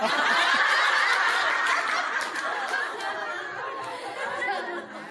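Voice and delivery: 길고 높게 숨 섞어 웃기; 자기 농담에 길게 터진 웃음; long high laugh. Real, not acted. (농담 끝에 길게 터지는 높은 웃음)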